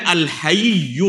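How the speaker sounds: الحی said long, al-Hayiyy-u, with an extra syllable; careful teacher's al-Ha-yiy-yu; drawn-out pronunciation. Shown as a demonstration. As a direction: stretch الحی out slowly into a final "yu". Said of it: "دونوں کا تلفظ الگ الگ ہے".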